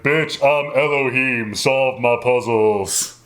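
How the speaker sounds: slow booming divine voice; god voice from the sky. Retold or imitated. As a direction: declare it slowly like a god. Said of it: "giant voice from the sky is all like".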